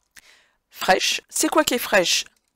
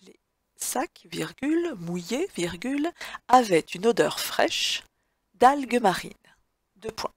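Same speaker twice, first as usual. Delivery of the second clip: dictating; 3 semitones higher than usual. Shown as a demonstration. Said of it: "dictée read again".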